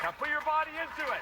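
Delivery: high, loud coach command; real hype yell; shouted urging. Real, not acted. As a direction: push them harder over the screams. Coach urging over screams.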